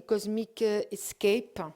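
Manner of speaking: slow, self-mocking try at an English accent on "Cosmic Escape". Real, not acted. Reading the t-shirt print in a mock English accent. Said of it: "Ouah, super, l'accent anglais".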